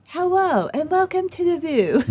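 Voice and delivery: high, slow Barbara Walters voice; a bad Barbara Walters take; Barbara Walters impression. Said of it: "I tried to do Barbara Walters".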